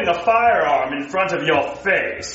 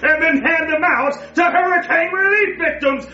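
evil villain gloat. Acted.

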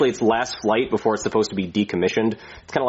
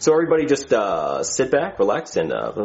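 captain's PA drone with long low uhs; pilot intercom voice; 3 semitones lower than usual. Acted. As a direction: mumble the announcement like a bored pilot on the intercom. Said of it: "We have to talk like that".

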